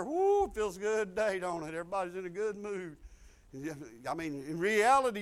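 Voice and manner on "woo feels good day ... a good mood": cheery boss. Retold or imitated. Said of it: "your boss walks in there".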